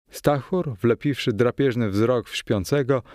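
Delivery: usual speaking voice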